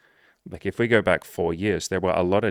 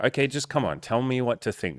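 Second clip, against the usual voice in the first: high, pleading mock voice; high mock plea; whiny follower; 6 semitones higher than usual. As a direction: beg the feed to decide for you. Mocking social media follower.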